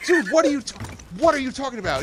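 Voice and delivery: loud, high mock bafflement; retold disbelief. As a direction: act out a room's incredulous outburst. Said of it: "everyone's like".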